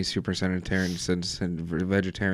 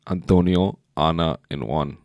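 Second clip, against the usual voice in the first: a hint of a put-on Spanish accent; Spanish twang; 3 dB louder, slower than usual. Friend reading names with a playful Spanish twang. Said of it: "put in some Spanish twang on that shit".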